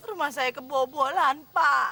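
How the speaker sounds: put-on very low, childlike crying. In a skit, a woman comes to a man for help, crying like a child. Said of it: "Kenapa nangis-nangis kayak anak kecil?".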